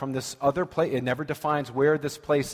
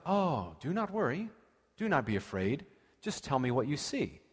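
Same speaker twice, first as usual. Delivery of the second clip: mock calm reassurance; 7 dB quieter than usual. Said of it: "the opposite is actually true".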